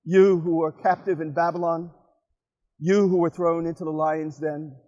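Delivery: measured recital in short phrases with pauses; deliberate, lightly declaimed verse; poem reading. Acted. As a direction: read it as your own poem, addressed to a friend. Reads own poem aloud.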